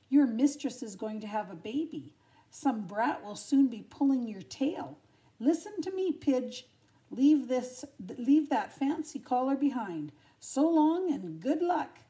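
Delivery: loud, cocky advice; a streetwise stray showing off; breezy street dog. Acted. Tramp tips off the pampered dog, cocky. Tramp advises Lady, louder.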